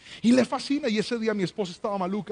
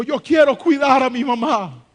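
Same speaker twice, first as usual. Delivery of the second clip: lightly voiced little girl, pleading; a hint of a small child asking; daughter's voice; 6 semitones higher, 8 dB louder than usual. Pastor quoting his daughter Anita, lightly voiced as a child.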